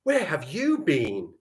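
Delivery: slow question, YOU BEEN lifted; upward inflection. Shown as a demonstration. Teacher voicing the question mark, YOU BEEN lifted. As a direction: stretch it out and lift YOU BEEN. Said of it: "The upward inflection is how we do the question mark".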